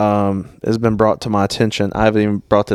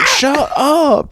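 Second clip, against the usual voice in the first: retold yell. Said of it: "Jordan's like".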